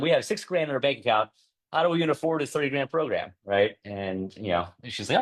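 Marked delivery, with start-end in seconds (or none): 0.0-3.3 higher-pitched, incredulous money worry; mild retold alarm. Husband questioning wife about the thirty grand, mildly alarmed. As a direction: protest with a touch of disbelief.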